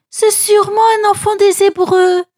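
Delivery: a princess musing aloud. A narrator's reading. Princess to her servants, lightly voiced. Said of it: "dit la princesse".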